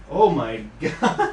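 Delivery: slow, loud, laughing oh my god; laughing disgust. Real, not acted. Seeing the filthy radiator dust, slow laughing groan. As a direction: drag it out, grossed out and amused.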